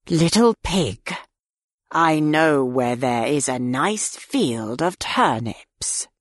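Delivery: low, slow scheming wolf; sly wolf voice. A narrator's reading. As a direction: tempt him slowly and low. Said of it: "he said".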